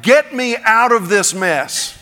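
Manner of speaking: comic pleading cry, slow then laughing; hammed-up desperate prayer. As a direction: overplay a frantic prayer for rescue. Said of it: "every prayer you pray".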